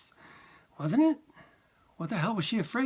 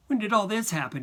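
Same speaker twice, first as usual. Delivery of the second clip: sharp, hard demand, pitched higher and louder; hard as nails; 6 semitones higher, 4 dB louder than usual. A narrator's reading. Son grilling his mother about the house, hard and cold. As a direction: clip each word like a verdict. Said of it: "hard as nails".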